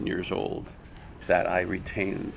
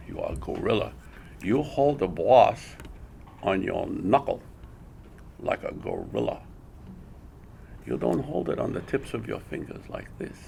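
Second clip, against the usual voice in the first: put-on Japanese accent. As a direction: mimic the teacher explaining in a Japanese accent. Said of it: "imitating an accent".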